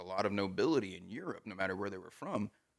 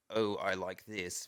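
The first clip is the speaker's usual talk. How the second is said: posh British; slower than usual. Shown as a demonstration. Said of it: "that difference between".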